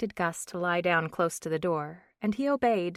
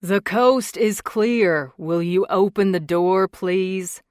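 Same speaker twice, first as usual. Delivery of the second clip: muffled through a closed door; 10 dB louder, slower than usual. A narrator's reading. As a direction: sound like you're behind a door. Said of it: "Cole's muffled voice filtered inside".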